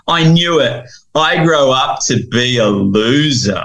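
put-on a kid groaning at his own future; dismayed boy. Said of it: "throws his hand to his head".

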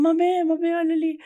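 imitating a friend calling out, pointing; excited call. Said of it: "o Thiago falou". (imitando o Thiago chamando animado)

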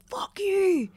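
high, mocking teen brush-off; mock snarl. Teen mocking parents with a high snide brush-off. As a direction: sneer it like a sulky kid.

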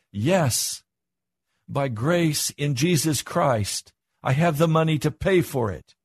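emphatic declaration. Retold or imitated. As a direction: declare it firmly, as a testimony of faith. Answers a doubter with declared faith.

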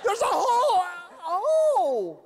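high shouted panic, slowed and laughing; panicked driver. Acted. Clueless driver seeing the tunnel, panicked high shout. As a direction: yell it like a confused tourist at the wheel. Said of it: "Who is driving going".

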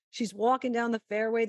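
ordinary delivery

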